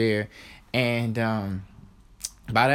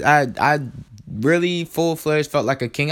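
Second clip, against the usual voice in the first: ordinary talk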